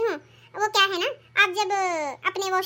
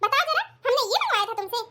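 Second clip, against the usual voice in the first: scolding; 4 semitones higher than usual. Acted. Mother-in-law scolds over the dress.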